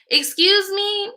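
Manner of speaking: slow, very high, drawn-out offense; indignant excuse me. Real, not acted. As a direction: draw it out in sky-high outrage. Indignant reaction.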